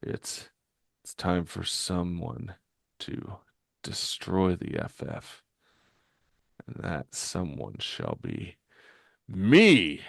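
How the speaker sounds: halting, hushed, with long pauses; woozy gunman slowly working up to a vow; dazed guard. Acted. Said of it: "begins to suffer what looks like a dizzy spell".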